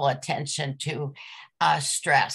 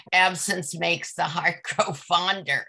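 amused quote. Retold or imitated. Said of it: "the old saying".

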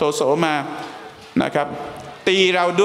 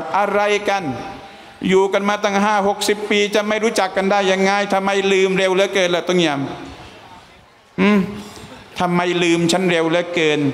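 higher, reproachful stranger's voice; a companion wounded at being forgotten; hurt stranger; 4 semitones higher than usual. Acted. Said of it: "ชายนิรนามก็บอกว่า". (น้ำเสียงสูง ตัดพ้อ น้อยใจ)

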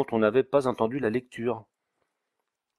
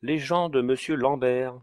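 a drawn-out footman's call, pitched higher; 4 semitones higher, 3 dB louder than usual. A narrator's reading. Servant summoning monsieur Lambert's men from the antechamber, calling out. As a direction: announce it slowly to the whole antechamber. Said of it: "une voix qui criait dans l'antichambre".

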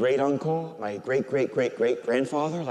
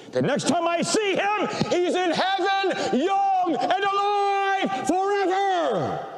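much higher, slow, ringing preacher's climax; soaring preaching; 14 semitones higher, slower than usual. Acted. Priest to his parish, proclaiming heaven in a high soaring voice. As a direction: lift the congregation up to heaven.

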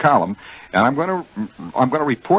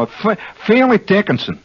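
"Fairleigh Dickinson" raised, Jersey style; New Jersey accent; 10 semitones higher than usual. Shown as a demonstration. Host names the college as natives do, raised Jersey accent. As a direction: say "Fairleigh Dickinson" high, like a local. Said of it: "very easy for me to say".

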